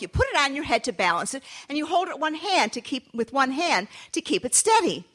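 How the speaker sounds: a mother's despairing lament; exasperated mother refrain. Acted. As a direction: wail it, then lecture. Mother scolds again.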